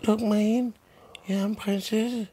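put-on very high little girl voice; lille pigestemme. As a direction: squeak it out like a tiny girl. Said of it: "en lille pigestemme". (meget høj lille pigestemme)

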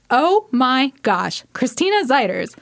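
a hint of her mother, slow start; mom impression. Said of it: "try to do an impression of my mom".

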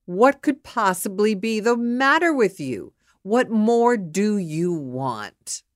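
exasperated demand, slowing at the end; insulted husband. Acted. Husband storming at his wife, exasperated. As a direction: drive the question home indignantly. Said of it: "The minute he is insulted".

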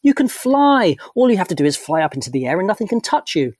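high, loud, encouraging; loud, high pep talk. Acted. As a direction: shout the good news at your friend. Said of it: "raising his voice".

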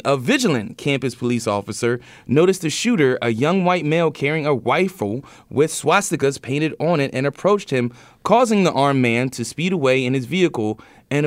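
measured news-story read. Real, not acted. Resumes reading the news.

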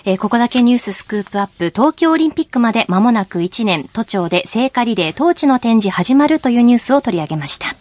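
measured radio presenter delivery; scripted news-show link; radio announcer read. Acted. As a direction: read out the headline and programme link to listeners. Radio news link and time check.

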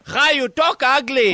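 lightly put-on Spanish-accented English, grumpy neighbour; a hint of a Spanish accent, complaining; lightly voiced Spanish-accented caller; mock Spanish accent. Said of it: "What is that accent?".

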